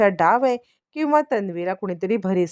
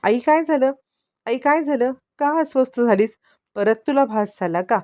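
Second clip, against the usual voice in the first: higher, sweetly feigned worry, overdoing the innocence; fake concern; 5 semitones higher than usual. Priya putting on a show for her mother, higher fake concern. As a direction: play the innocent daughter, pitch raised. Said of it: "प्रियाचं नाटक सुरू होतं".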